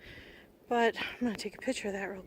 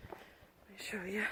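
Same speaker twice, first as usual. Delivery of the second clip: whispering; 4 semitones lower, 14 dB quieter, slower than usual. Real, not acted. Aside while walking.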